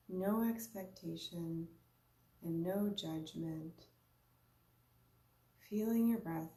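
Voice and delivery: unhurried meditation guide, long pauses between phrases; guided meditation. Real, not acted. Yoga teacher guiding listeners to observe their breath, unhurried guided meditation. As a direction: lead a breathing practice in short, spaced-out invitations.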